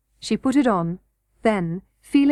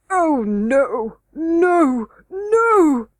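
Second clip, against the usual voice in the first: rising, louder pleading scream; 6 semitones higher, 5 dB louder, much slower than usual. A narrator's reading. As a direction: beg desperately, building to a scream. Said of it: "screamed the king in the most supplicating".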